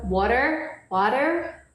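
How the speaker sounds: "water" with a British-style t, "waw-tuh"; her own accent. Shown as a demonstration. Show off her own "water" to the viewers. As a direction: say "water" the way she says it. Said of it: "scrying is beautiful".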